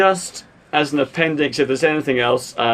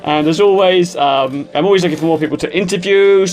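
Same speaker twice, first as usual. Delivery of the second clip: radio DJ voice. Acted. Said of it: "I'm sounding like a radio D J now".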